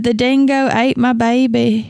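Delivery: a poor mock Australian accent; lightly done Australian accent, half-hearted; bad Australian accent. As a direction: toss off a weak Aussie impression. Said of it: "that is a piss poor, um, attempt at an accent".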